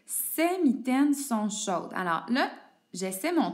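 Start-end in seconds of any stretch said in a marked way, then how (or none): 0.0-1.9 slow example read. Shown as a demonstration. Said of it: "on va prendre la première phrase".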